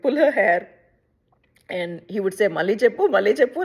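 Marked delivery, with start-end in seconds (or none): 2.5-3.6 teasing brother. Retold or imitated. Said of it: "make fun of her".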